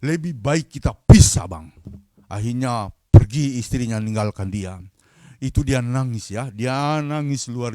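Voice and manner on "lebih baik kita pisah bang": high, indignant scolding, bursting louder at the end; acted marital outburst; angry wife. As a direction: imitate a fed-up wife telling off her husband. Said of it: "Itu istrinya langsung marah".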